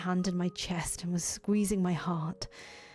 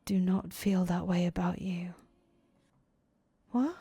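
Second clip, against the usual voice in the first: whispered narration. A narrator's reading.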